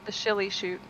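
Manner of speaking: "shilly" said with sh, not s; slushy sh in "shilly shoot". Real, not acted. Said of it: "I don't know why I called it that".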